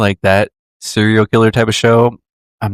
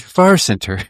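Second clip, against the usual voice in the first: echoing a friend's odd phrase, pitched higher; higher far center; 4 semitones higher than usual. Shown as a demonstration. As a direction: repeat it pitched up, mock serious.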